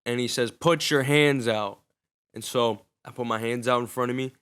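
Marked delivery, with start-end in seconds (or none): 0.5-1.8 slow, deliberate cop command on Put; firm repeated order. Retold or imitated. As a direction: lay down the order again, no arguing.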